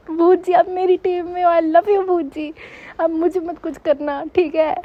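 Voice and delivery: butter up the ghost playfully; coaxing the ghost. Retold or imitated. Girl coaxing the ghost on her team, sweetly.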